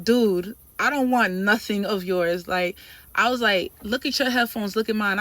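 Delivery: loud annoyed retort. Retold or imitated. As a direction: snap back at him. Arguing with the trainer.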